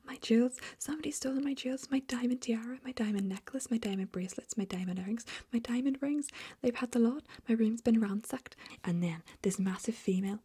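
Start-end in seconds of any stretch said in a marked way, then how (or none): 0.1-8.6 screaming. A narrator's reading. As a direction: wail for the stolen jewels.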